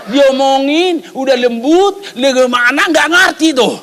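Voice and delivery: retold parental exasperation, stretched out; exasperated complaint. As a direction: draw out each phrase in mounting frustration. Exasperated father, temper rising.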